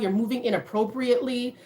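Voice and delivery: ordinary talk, nothing marked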